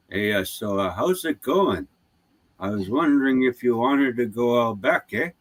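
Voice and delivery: put-on easygoing, lilting Aboriginal accent. Greeting Aboriginal relatives and inviting them out back, Aboriginal accent. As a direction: slip playfully into an Aboriginal accent. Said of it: "I've got Aboriginal people in my family".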